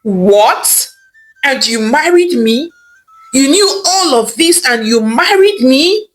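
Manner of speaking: rising, disbelieving questions; shocked wife confronting her husband. Acted. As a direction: ask in stunned disbelief. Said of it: "Ijeoma was shocked".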